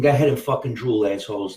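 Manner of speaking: fast, cocky jab at the drooling audience; crude taunt. Pretend. Comedian taunting his hungry viewers, crude and cocky. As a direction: sneer it at them like a hammed-up bully. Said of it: "I don't mean to talk like that".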